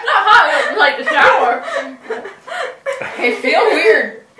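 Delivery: laughing. Real, not acted. Laughing through sour taste.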